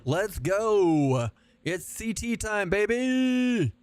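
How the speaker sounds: high, drawn-out excited holler; pumped-up gamer rallying call; hyped battle cry. Real, not acted. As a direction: charge in whooping, stretching the last word. Hyped charge into the fight.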